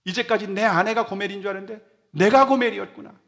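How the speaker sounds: high, loud anguished outcry of confession; loud, high weeping repentance; anguished crying out. Retold or imitated. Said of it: "하면서 막 통곡하며 울었답니다".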